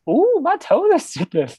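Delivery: high, put-on girlish voice; imitating a creepy girl, high and sing-song; mock creepy girl. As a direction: coo it like a creepy copycat. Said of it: "she goes".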